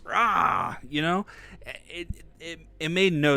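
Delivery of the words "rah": short roar, higher and louder; imitated monster outburst; mock roar. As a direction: burst out with a quick "rah". Mimics Hulk erupting in retelling.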